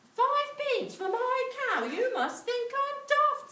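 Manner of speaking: put-on high, loud outraged boy; indignant Jack. Jack protesting to the man, high and loud. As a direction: sputter at the insulting offer. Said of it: "said Jack".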